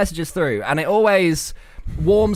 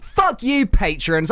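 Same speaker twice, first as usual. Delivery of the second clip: bad American accent; 3 semitones higher, much slower than usual. Co-host cusses the patrons in a failed American accent. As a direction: attempt an American accent, unconvincingly. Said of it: "That's not even an American accent".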